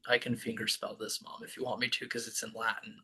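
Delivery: a soft aside to Mom, off the main talk; quiet aside. Real, not acted.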